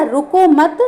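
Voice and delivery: "रुको मत" as one unit, stopping on "मत"; pause after मत. Shown as a demonstration. Teacher repeating the example for students, pause after मत. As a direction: halt right after "मत". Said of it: "कहाँ पर रुके, मत पर".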